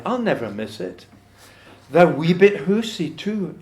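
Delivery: measured verse reading, lifted then falling away; poem recitation. Acted. Reading on about the mouse's ruined little house, poem recitation. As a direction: read it aloud as rhymed verse.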